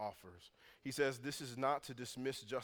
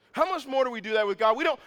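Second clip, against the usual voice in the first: higher and louder, driving the question home; loud repeat; 10 semitones higher, 12 dB louder, faster than usual. Real, not acted. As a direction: hammer the question a second time at full voice.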